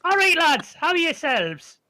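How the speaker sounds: high, loud creature greeting; Morricanth voice. Acted. Morricanth greets the approaching party, high and loud. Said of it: "what accent I'm using for the, uh, Morricanth".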